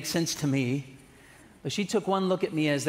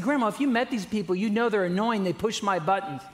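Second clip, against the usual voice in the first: higher, fast, laughing mock protest; exasperated teen self; 5 semitones higher than usual. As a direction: rattle off a teen's complaint, half-laughing. Teen arguing with grandma.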